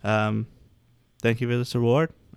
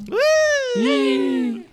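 high joyful whoop; excited whoop; 4 dB louder than usual. Real, not acted. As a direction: cheer at the top. Cheering at episode end.

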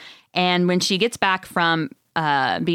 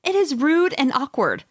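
mock outrage; 7 semitones higher than usual. Real, not acted. Indignant rant about phone etiquette.

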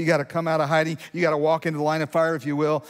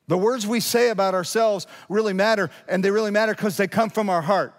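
emphatic preaching; 6 semitones higher, 4 dB louder than usual. Real, not acted. Preaches at full force.

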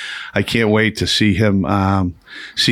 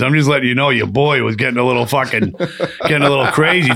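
laughing through the quote; 3 semitones higher than usual. Retold or imitated. Retold quote breaks into laughter.

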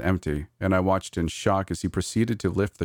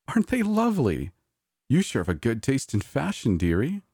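put-on gushing old diva; 7 semitones higher than usual. A narrator's reading. Diva voiced, gushing praise.

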